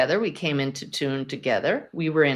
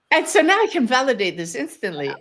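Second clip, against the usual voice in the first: whisper; 7 semitones higher, 4 dB louder than usual. Real, not acted. Dramatic aside in a story.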